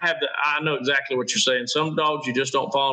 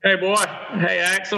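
calling a dog; 6 semitones higher than usual. Real, not acted. Friend greeting the host's dog over the line, high and eager.

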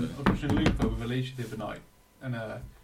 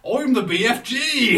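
high, loud, slow Cornish accent; Cornwall accent; 9 semitones higher, 10 dB louder, slower than usual. Shown as a demonstration. Friend leaps in as the giant, loud Cornish accent. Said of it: "Cornwall accent".

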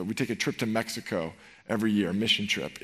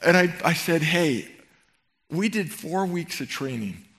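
higher and louder, disbelieving; exasperated retelling; 5 semitones higher, 4 dB louder than usual. Retold or imitated. Youth pastor to camper Gary, exasperated and loud. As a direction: vent mock outrage at the complaint.

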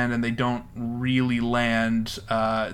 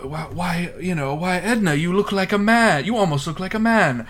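higher, louder, arch 1920s wit; mock snooty banter; 7 semitones higher, 4 dB louder than usual. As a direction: play a haughty wag teasing Edna. Acting out film banter.

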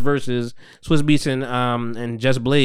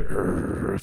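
mock growl; 9 semitones lower, 10 dB quieter than usual. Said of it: "fucking growling and shit".

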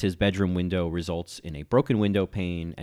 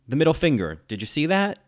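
mock Valerie; 8 semitones higher, 5 dB louder than usual. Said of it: "her speaking directly to the camera, saying".

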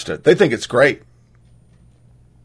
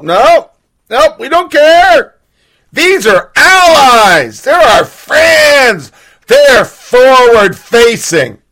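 higher, slow, sneering media voice; slow sarcastic imitation of the media; sarcastic mockery; 7 semitones higher, much slower than usual. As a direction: drag it out mockingly like a smug pundit. Mocking the media's defence.

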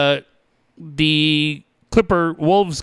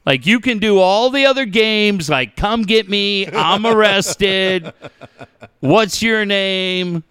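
imitated scolding son; 5 semitones higher, slower than usual. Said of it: "So he's like".

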